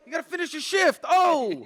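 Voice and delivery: high, loud mock yell; yelling boss. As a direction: bark her back to work, pitched high. Mocking shout at the dancer.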